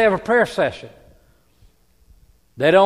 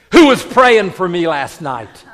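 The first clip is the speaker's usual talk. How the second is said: desperate plea; 8 dB louder than usual. Retold or imitated. Daughter pleads with her father.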